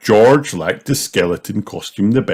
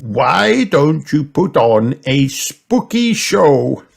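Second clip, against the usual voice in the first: Grandpa voice; 7 semitones higher, 5 dB louder, slower than usual. A narrator's reading. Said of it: "suggested Grandpa Pig".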